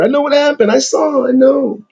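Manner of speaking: lightly voiced stern God; the Creator. God telling the angels he knows, lightly voiced stern. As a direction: speak as God who knows all. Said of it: "This is the Creator".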